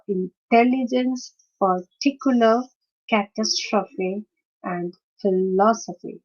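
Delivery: spaced list, "intelligence", "particular", "catastrophe", "philosophy", each hit on the second syllable; second-syllable stress. Shown as a demonstration. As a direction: lean on "tel", "tic", "tas", "los" in "intelligence", "particular", "catastrophe", "philosophy". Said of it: "stress is on the second syllable".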